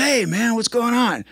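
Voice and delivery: lightly voiced cheerful old friend; cheery Vince imitation. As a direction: friend greeting him from the hospital. Imitating Vince from hospital bed.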